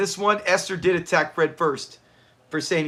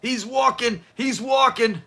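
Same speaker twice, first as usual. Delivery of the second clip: higher, imitated catchphrase "He's walking"; quoting mom's favorite line; 6 semitones higher, slower than usual. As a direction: sing out "He's walking" like the show does. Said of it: "She loved that line".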